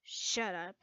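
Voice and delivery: low, soft embarrassed shut up; embarrassed retort. Acted. Lucy, teased by Levy, mutters back embarrassed. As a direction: brush off the teasing under breath.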